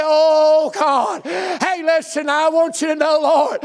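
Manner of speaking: pouting complaint. Acted. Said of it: "I'll talk about how pitiful things are".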